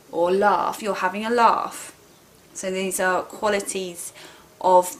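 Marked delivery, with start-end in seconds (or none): 0.3-1.9 "laugh" said "lahf", with a long open vowel; southern English long "ah" in "laugh". Shown as a demonstration. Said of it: "we make the long A sound".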